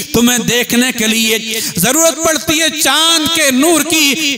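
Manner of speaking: sustained, ringing sermon delivery; impassioned preaching. Acted. Preacher arguing the Prophet's night sight to the congregation, impassioned preaching. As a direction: preach it to the crowd with drive.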